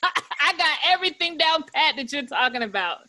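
talking through real laughter; giggling as she admits it; laughing. Real, not acted. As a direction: laugh while agreeing. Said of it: "I'm laughing so hard".

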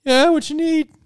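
high, jittery waiter voice; nervous waiter. Acted. Waiter answering the party's call, high and jumpy. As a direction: squeak it out like a nervous little waiter.

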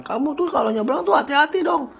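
put-on high-pitched nagging parent warning a child; scolding parent. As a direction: imitate a worried parent scolding you at a crossing. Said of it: "kayak yang".

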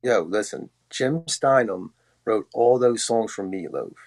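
podcast host asks for a dramatic retake, slow reveal; big delivery. Shown as a demonstration. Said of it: "really deliver".

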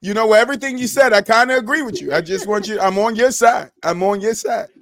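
high playful teasing; mock agreeable. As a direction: pretend to side with him. Mock sweet agreement to Mel.

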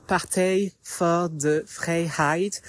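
"Partij voor de Vrijheid" said slowly with a rough Dutch accent; Dutch pronunciation. Shown as a demonstration. Vlogger naming the winning Dutch party, slow attempt at Dutch. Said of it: "mon accent très approximatif".

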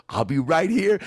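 mock-dramatic promise to the prisoner; mock tearful farewell. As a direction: call it as if he's being taken away. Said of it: "as if, like, he was being taken away".

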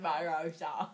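laughing attempt at an Australian accent; mock Australian accent. Podcaster imitating co-host's valley name, mock Australian accent. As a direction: say it in a hammed-up Aussie accent. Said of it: "This is turning into the accent video".

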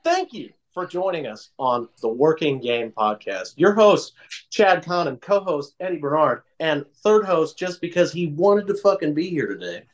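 light mock podcast announcer read; professional host intro. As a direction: announce the show like a pro host. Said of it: "be fucking professional and be like".

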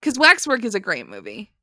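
deadpan sarcastic praise; tongue-in-cheek endorsement. Real, not acted. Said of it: "detect the sarcasm in my voice".

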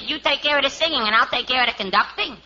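last word left hanging up; rising ending. Acted. Jerry answers Dean, ending on a rise. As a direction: end each line on a lift, unfinished. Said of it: "Why do you leave that last word up in the air?".

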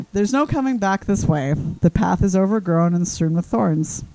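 slow, measured poem reading; solemnly paced lyric recital; reciting lyrics. Acted. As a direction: recite it slowly like verse. Reads out a chosen lyric.

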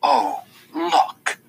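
high sarcastic bitter look look; mock wonder soaked in bitterness; bitter sarcastic exclamation; dripping bitterness. A narrator's reading. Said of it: "her voice dripping bitterness".

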